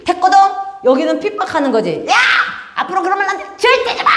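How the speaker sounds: high mock yell at a friend; mock angry friend. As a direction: snap back like a rude classmate. Acted friend rejecting gospel. (전도를 거절하는 친구의 장난스러운 고함)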